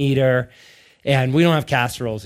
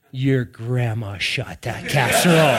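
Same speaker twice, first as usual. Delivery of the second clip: slow deadpan punchline; mock solemn; 3 semitones lower, slower than usual. Dad answers his young son, mock solemn. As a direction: deliver it slowly, dead serious, for the laugh.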